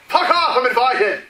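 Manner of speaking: put-on high, loud drunken shout from the stairs; drunken yell. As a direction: bellow it like a rowdy drunk crashing a party. Drunk NPC yelling from stairs.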